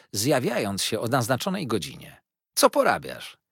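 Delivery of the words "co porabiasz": loud, brisk hail; called-out greeting. A narrator's reading. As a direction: call it out to a friend. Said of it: "zawołał Traddles". (głośno zawołane pytanie)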